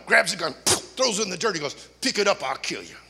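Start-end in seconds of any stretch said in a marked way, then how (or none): 2.0-3.0 low laughing tough-guy threat; menacing threat. Retold or imitated. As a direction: dare him to pick it up.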